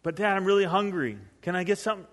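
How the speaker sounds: lightly imitated begging kid; pleading son. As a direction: keep pestering Dad, a touch plaintive. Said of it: "and really frustrated".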